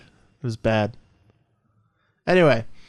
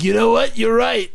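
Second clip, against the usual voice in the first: lightly voiced Will Smith, a bit higher; a hint of Will Smith; barely-there Will Smith impression; 6 semitones higher than usual. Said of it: "This is my Will Smith voice".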